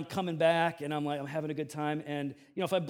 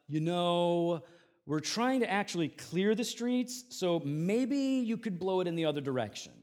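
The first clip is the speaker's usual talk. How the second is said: sing-songy condescending. Retold or imitated. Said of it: "in this sing-songy, condescending tone".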